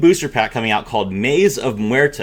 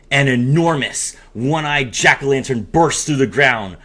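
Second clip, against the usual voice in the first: storyteller reading a spooky promo aloud; hammed-up narrator of a Halloween story; dramatic reading. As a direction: read it like a spooky campfire tale.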